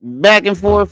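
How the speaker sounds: high, incredulous push-back; exasperated retort. Retold or imitated. Answering the commenter in disbelief, exasperated. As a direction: toss it back like it's obvious. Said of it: "I was like".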